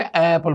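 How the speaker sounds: एप्पल with doubled opening "aa"; run-together vowels. Shown as a demonstration. Teacher showing article swallowed into noun, एप्पल with long first vowel. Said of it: "ऐसा लगने लगेगा जैसे".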